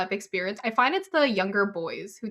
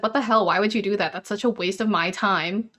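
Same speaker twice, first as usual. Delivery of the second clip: mock angry rant. Angry at the friend who prank called her family restaurant. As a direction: tell him off for wasting everyone's time. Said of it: "I was so mad that he did".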